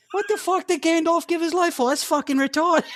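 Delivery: very high, incredulous Boston voice; Elijah Wood. Pretend. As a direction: squeal it as an outraged Boston hobbit. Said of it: "imagine Elijah Wood".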